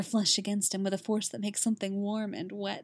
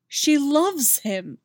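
slow, louder, leaning on she; slow realization; 6 semitones higher, 6 dB louder, much slower than usual. A narrator's reading. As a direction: let it land slowly. Repeated realization, slowed.

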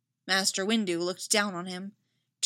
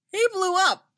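bright high burst, louder; drugged patient, delighted with himself; cheerful; 12 semitones higher, 7 dB louder than usual. Acted. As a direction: pop the words out gleefully. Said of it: "with a cheerful burst".

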